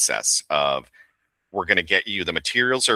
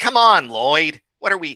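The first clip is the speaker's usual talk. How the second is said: very high, loud, nasally character voice; 10 semitones higher, 5 dB louder than usual. A voice actor demonstrates the character voice they found, in a high nasal voice. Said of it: "he goes nasally".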